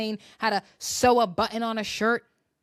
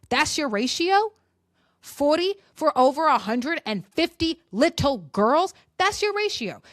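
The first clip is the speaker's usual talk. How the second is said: indignant; 4 semitones higher, 4 dB louder than usual. Real, not acted. Outraged rhetorical questions.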